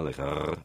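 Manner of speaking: "R" made at the back of the throat; a throaty back R; uvular R. Shown as a demonstration. Demonstrating one possible Elizabethan R, uvular. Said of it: "a uvula R".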